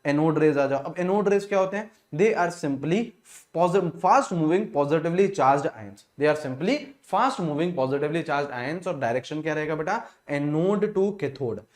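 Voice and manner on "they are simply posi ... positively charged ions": each word read out slowly for note-taking; slow dictation. Acted. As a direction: dicteer het langzaam en duidelijk.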